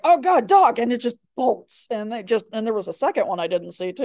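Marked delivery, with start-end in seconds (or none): 0.0-0.8 higher, louder exasperated groan; a lightly voiced fed-up deer. Teacher voicing the deer startled by the dog, higher and louder. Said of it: "the deer's like".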